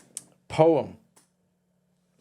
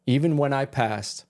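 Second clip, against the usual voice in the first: slow poem recital. Acted.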